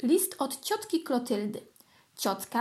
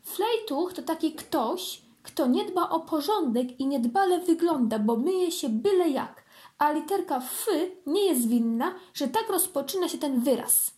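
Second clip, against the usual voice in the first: matter-of-fact; 4 semitones higher than usual. Acted. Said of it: "wyjaśniła rzeczowo Flora".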